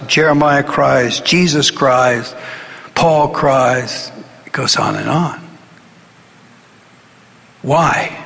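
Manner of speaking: normal talking voice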